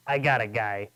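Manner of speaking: low, quiet mock-mobster line; pretend mobster. Dad boasting to his child of connections, low mock-mobster voice. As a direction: play a dad acting mobbed-up, hushed and low. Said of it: "likes to pretend that he's in the mob".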